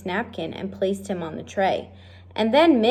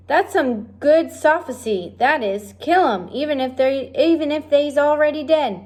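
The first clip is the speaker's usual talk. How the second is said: put-on dim, admiring girl; 5 semitones higher than usual. Simple girl admiring the cook's rule.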